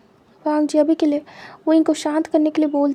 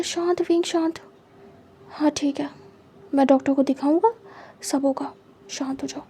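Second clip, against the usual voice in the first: soothing hush; 3 dB quieter than usual. Acted. Soothing his crying partner.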